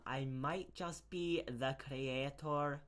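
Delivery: put-on slow, weak Scottish accent. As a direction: drag it out in a shaky Scottish accent.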